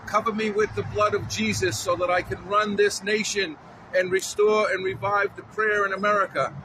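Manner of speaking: fervent spoken prayer; praying aloud. Acted. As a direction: pray aloud with rising fervor. Candidate prays aloud on camera.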